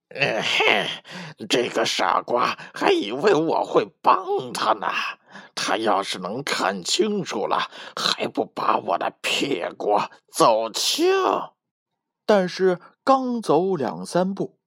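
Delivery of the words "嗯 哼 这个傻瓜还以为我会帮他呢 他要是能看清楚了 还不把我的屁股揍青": a lightly voiced wolf grumbling to himself; wolf muttering. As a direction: sneer under your breath while slipping away. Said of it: "大野狼一边开溜一边嘀咕".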